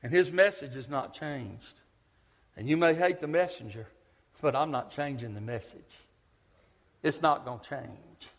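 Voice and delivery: sweetly polite but firm; sugary gentle reply to the old woman. Retold or imitated. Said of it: "as sweet as I could".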